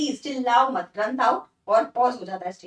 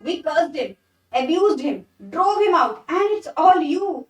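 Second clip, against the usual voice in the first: blaming father; 2 semitones higher, 4 dB louder, much slower than usual. Acted. Father blames his daughter.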